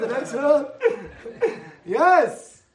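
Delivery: laughing through the words. Real, not acted. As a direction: break into laughter. Laughs at own line.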